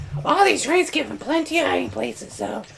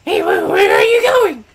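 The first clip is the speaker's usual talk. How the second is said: calling out; 5 dB louder than usual. Acted. Character calls after fleeing men.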